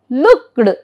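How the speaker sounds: "looked" as one syllable, no E sound; silent E. Shown as a demonstration. Teacher shows E D endings, "looked" with silent E. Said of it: "E is not".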